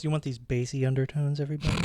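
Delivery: lightly put-on sultry tone; hammed-up seductive radio voice. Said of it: "do you like my sultry voice".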